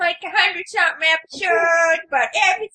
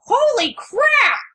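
slow, high exclaimed holy crap; drawn-out sitcom dad outburst; Frank Barone; 8 semitones higher, 3 dB louder, slower than usual. Retold or imitated. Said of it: "In the words of the immortal Frank Barone".

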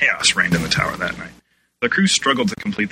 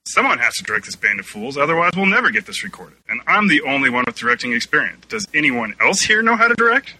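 flustered sputter; 5 semitones higher, 3 dB louder than usual. A narrator's reading. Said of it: "Dan sputtered".

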